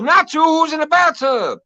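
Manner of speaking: high, impatient mom voice; imitating mom. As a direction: snap back like an annoyed mother. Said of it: "She goes".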